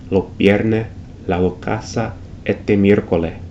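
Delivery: lo vierne, la do casa said with the final s gone; dropped s. Shown as a demonstration. Teacher demoing Caribbean dropped final s. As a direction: drop every final s, la do casa. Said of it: "completely aspirated or elided".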